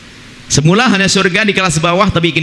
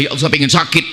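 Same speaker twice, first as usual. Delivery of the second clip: showy pious prayer; 3 semitones lower than usual. Retold or imitated. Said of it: "Jangan sok minta musibah".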